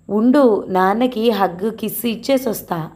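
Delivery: a hint of a boy already running off; hurried little boy. Grandson calling back while dashing to his father, hurried.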